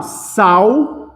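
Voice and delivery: "sal" drawn out with L sounding as U. Shown as a demonstration. Teacher showing the sound of the first syllable, drawn-out "sal". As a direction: stretch "sal" slowly, ending in a U glide. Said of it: "É assim que eu pronuncio".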